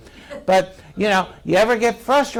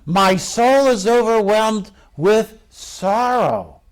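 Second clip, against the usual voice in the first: slow, drawn-out lament; mildly acted anguish, slow. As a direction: preach the sorrow in stretched, heavy words. Acts out anguish in Gethsemane.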